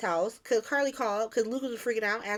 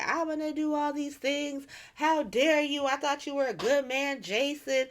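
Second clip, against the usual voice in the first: higher-pitched, mock-outraged complaint; indignant accusation; 4 semitones higher than usual. Accusing Jason of not being good, mock indignant. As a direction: retell an outraged telling-off.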